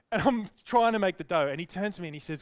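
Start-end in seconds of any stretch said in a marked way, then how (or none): none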